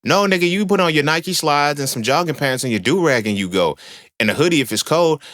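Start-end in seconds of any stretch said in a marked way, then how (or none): 0.0-1.8 incredulous. Real, not acted. Mocking guy dressing up.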